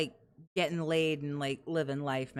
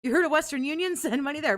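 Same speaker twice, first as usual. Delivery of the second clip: much higher, louder mocking beg; mocking impression; 10 semitones higher, 5 dB louder than usual. Cohost imitating streamer begging, high and loud. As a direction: lampoon him demanding money. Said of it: "mocking streamer begging".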